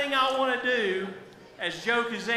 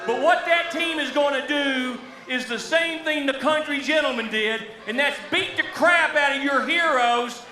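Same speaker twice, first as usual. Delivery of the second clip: sneering wrestling villain. Acted. Heel manager threatens crowd heroes.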